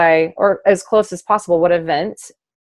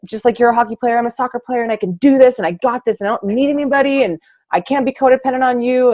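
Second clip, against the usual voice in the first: defiant self-talk; 5 semitones higher, faster than usual. Retold or imitated. Retells her defiant inner voice.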